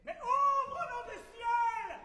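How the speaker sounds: high, loud and urgent; urgent plea. Acted. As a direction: beg them to open, fast.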